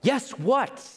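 high bewildered ask; puzzled question. Retold or imitated. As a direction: snap up in confusion. Hopkins confused.

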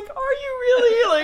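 very high, slow, drawn-out disbelief; answering the ex who claims he's blindsided; incredulous sarcasm. Retold or imitated. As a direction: stretch it out, mocking his surprise. Sarcastic reply during breakup call.

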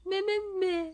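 high-pitched mocking whine; exaggerated whiny grumbling; mock whining. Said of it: "Stop fucking whining".

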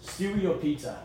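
put-on light British accent, asking flatly; a hint of a local Brit's voice. Imitating a drunk Brit at a McDonald's, lightly British. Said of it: "this local Brit walks up to me".

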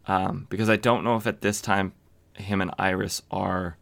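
ordinary talk, nothing marked

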